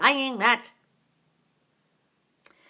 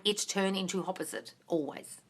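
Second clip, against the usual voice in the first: mock echo of her words; 3 semitones lower, 10 dB quieter than usual. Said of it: "Because you keep saying".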